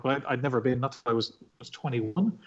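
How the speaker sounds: usual speaking voice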